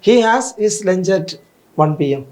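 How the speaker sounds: teacher dictating the next question; slow dictation. Shown as a demonstration. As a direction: read the exercise sentence aloud slowly. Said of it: "അടുത്ത question നോക്കാം നമുക്ക്".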